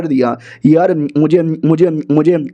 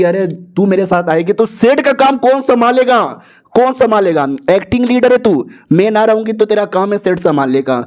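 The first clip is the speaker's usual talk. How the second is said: higher-pitched mock scolding; exasperated objection; 4 semitones higher than usual. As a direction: object in a raised voice, as if telling off. Acted scolding of the acting leader.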